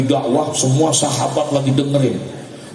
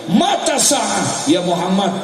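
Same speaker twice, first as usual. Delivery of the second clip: imitated yell; 5 semitones higher, slower than usual. Young man interrupting the Prophet with a question, acted drawn-out yell. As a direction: mimic the intruder calling out, first word drawn long. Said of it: "dia teriak".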